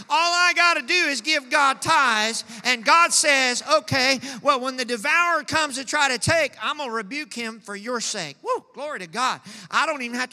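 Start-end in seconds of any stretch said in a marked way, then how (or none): 0.1-8.4 louder preaching repeat. Acted. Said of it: "I'm gonna say it again".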